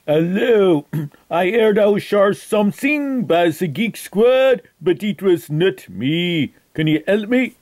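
hammed-up French accent on a prank call; outrageous fake French accent. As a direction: play a Frenchman with a thick, put-on French accent. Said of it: "That is why I have this outrageous accent".

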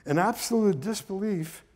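measured read-aloud storytelling; story narration. A narrator's reading. Son reading his father's story to listeners, measured narration. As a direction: read the memoir passage with deliberate phrasing. Reads a section of the memoir.

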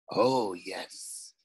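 low, pleased ghostly voice. A narrator's reading. Ghost agrees to Nico's plan, pleased and ghostly. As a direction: sound satisfied. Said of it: "sounding quite pleased".

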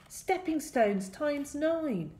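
high, drawn-out incantation; casting a spell. A narrator's reading. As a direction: proclaim it slowly as a magic spell. Hero casts a spell.

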